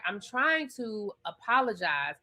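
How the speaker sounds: meek Angel. Retold or imitated. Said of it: "And Angel was like".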